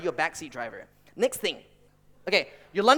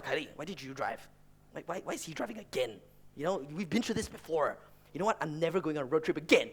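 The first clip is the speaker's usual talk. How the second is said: softer, grumbling under the breath; muttering; 2 semitones lower, 5 dB quieter than usual. Retold or imitated. Imitating brother grumbling about dad's driving, softer mutter. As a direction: mutter it like a sulky brother in the back. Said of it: "He's just muttering to himself".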